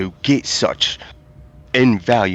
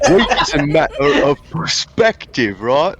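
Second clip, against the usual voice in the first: high, louder, Southern-tinged scholar; southern accent; 7 semitones higher, 3 dB louder than usual. Acted. Scholar arguing weakness is perspective, accent slipping. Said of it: "I keep doing it".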